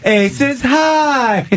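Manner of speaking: female announcer impression. Mocking the show's opening announcer, slow high and drawn out. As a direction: stretch it out like a glitzy Vegas show intro. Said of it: "the female announcer doing that".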